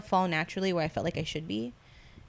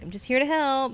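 high reassuring; 7 semitones higher, 3 dB louder than usual. Retold or imitated. Reassuring the spirit in her head.

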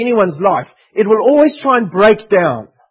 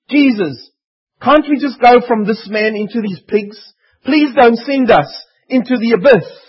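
pleading demons; 3 semitones higher than usual. Acted. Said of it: "they plead with Jesus".

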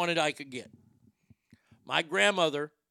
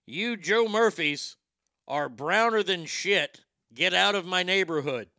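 a louder, slowed mock yell down from the balcony; 3 semitones higher, 6 dB louder than usual. Comic grandma yelling from the balcony at the kids, louder slow mock yell. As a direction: bellow it down at the kids, drawn out. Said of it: "She yelled down".

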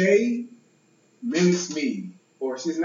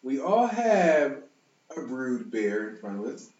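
Shay voice. Shown as a demonstration. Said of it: "this is my Shay voice".

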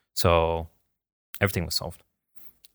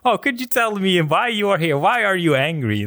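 higher, sing-song fake concern; mock-sweet questions; 10 semitones higher, 3 dB louder than usual. Mocking the idea of asking the cleaners why, higher sing-song. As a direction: pretend to gently probe their feelings.

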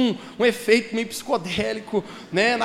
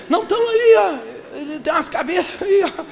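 much higher, laughing imitation of mom brushing it off; mock mother; 4 semitones higher than usual. Mother assuring father the kids are fine, mock high laughing voice. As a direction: toss it off lightly as the unbothered mother, giggling. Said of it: "Meu pai certifica".

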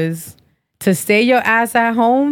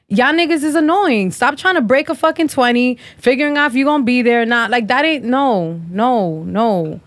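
exasperated scolding; 4 semitones higher than usual. Real, not acted. Scolding annoying club guys.

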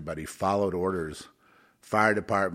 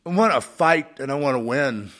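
raised, louder vow to fight; fired-up declaration; 6 semitones higher, 6 dB louder than usual. Real, not acted. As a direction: punch it out like a rallying cry. Vows to fight back.

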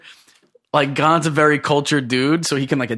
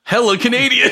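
put-on high teasing girlfriend; 8 semitones higher than usual. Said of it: "She's like".

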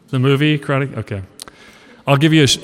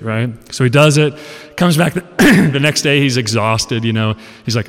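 ordinary delivery

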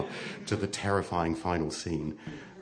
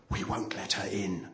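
softened, secretive voice; whispered; 8 dB quieter than usual. A narrator's reading. Turkey afraid to speak aloud, whispering. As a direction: keep it hushed and fearful. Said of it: "whispered the turkey".

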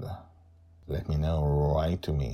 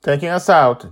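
a raised, steady answer; calm reply; 10 semitones higher, 11 dB louder than usual. Acted. Joy answering the panicked crew, lightly voiced and raised. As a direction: confirm the order lightly. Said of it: "Joy says".

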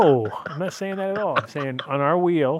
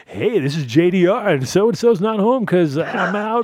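answering machine voice; 4 semitones higher, 5 dB louder, slower than usual. Pretend. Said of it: "you can just do their answering machine".

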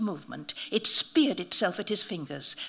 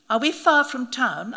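louder, pushing question; demanding; 4 semitones higher, 8 dB louder than usual. A narrator's reading. Narrator pressing the weak priest for distance, demanding. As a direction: press him for an answer. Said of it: "I demanded".

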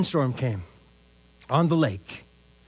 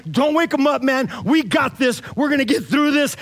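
cocky Peter; 6 semitones higher than usual. Retold or imitated.

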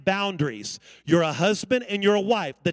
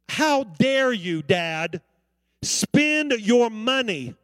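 slow, indignant how-dare-you; indignant son; slower than usual. Retold or imitated. Older son scolding his father slowly, indignant. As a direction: drag it out like an offended son. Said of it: "the son's attitude here".

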